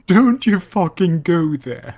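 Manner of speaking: growled warning. Acted. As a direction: warn them off, dead serious. Refusing again, others pushing.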